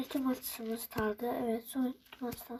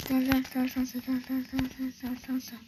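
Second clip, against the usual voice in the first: calling out; 4 dB louder than usual. Real, not acted. Taunting an enemy player in game.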